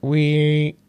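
a hint of Kermit telling a bedtime story; mild Kermit musing about his best friends; Kermit the Frog impression. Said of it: "Kermit the Frog".

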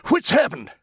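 startled general bawling at the screen; bawled. A narrator's reading. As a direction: bawl it out in alarm. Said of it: "he bawled".

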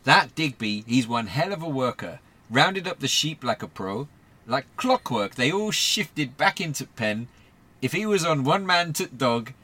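Dex the worker in a put-on northern accent, lightly done; a wobbly northern accent, chatting about the sheepdog. Dex reporting to Q P, in a light northern accent. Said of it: "your northern accent went".

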